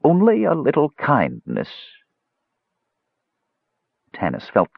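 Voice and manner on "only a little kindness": put-on high, plaintive old woman; voice breaking, melancholy. A narrator's reading. Old woman begging Tanis for kindness, voice breaking. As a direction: plead mournfully in a high, breaking voice. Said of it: "Her voice broke".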